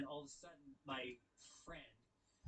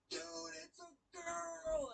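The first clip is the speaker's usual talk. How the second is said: alarmed shout; 6 dB louder, much slower than usual. Retold or imitated.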